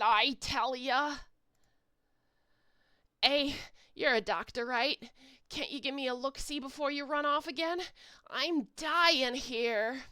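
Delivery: lightly voiced whiny Boston accent. Giant eyes whine at the doctor in a light Boston accent. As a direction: complain in a mild Boston accent. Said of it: "complaining at you in a Boston accent".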